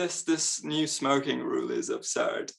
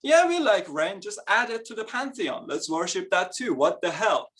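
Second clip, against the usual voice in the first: easygoing mock Romans; 5 semitones higher than usual. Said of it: "the Romans would go".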